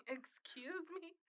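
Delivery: high, slow, drawn-out excuse me; mock offended. Real, not acted. Friend reacts to a hug story with drawn-out mock indignation. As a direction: play shocked, stretching every syllable.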